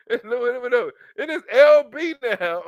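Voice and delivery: slowed right down, laughing; slow punchline. Acted. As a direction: stretch it out through the laugh.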